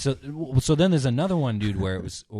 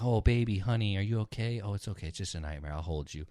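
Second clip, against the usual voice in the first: fake soothing; 4 dB quieter than usual. Husband fakes comfort out loud.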